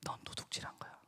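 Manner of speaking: very soft, whispery verdict; quiet retold rebuke; hushed accusation. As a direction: deliver the charge under your breath. God's quiet verdict in retold dialogue.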